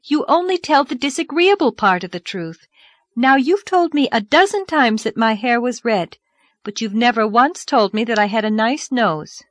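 put-on young girl voice. Narrator voices Anne.

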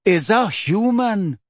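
slow, plain statement; simply. A narrator's reading. Ferenzi cutting Parvati off, slow and simple. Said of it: "said Ferenzi simply".

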